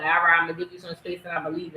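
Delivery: rushed, dismissive; mocking the girlfriend's quick brush-off; fast mock quote. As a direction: rattle off her line fast. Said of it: "and then you're like".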